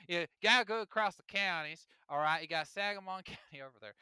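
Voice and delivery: put-on joking Southern accent, tour-guide style. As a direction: slip into a playful Southern accent. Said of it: "I did a Southern accent".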